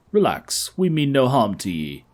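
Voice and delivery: a tried-out Irish lilt; Irish accent. Acted. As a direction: reassure them in a put-on Irish accent. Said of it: "What's with the weird accent".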